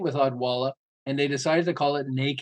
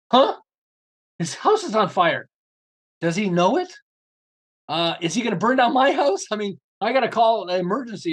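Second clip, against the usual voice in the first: startled; 4 semitones higher than usual. Retold or imitated. Startled at seeing fire.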